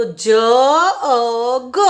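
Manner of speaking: "જ અ ગ" as three separate sounds with pauses; "જ અ ગ", each sound isolated. Shown as a demonstration. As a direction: spell "જ અ ગ" phonetically, one sound at a time. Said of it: "જીને આપણે શું બોલતા હતા?".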